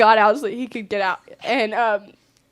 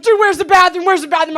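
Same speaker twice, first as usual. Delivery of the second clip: mock desperation; 5 semitones higher, 6 dB louder, faster than usual. Imitates friend desperate for bathroom.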